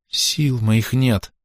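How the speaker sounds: very slow, drawn out moan; exhausted woman moaning to the congregation. A narrator's reading. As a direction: moan it out in despair. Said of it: "простонала Зиновья".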